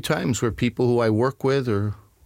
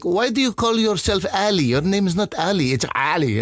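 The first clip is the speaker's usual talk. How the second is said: scolding Arabs; 7 semitones higher than usual. Retold or imitated. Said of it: "So Arabs would be like".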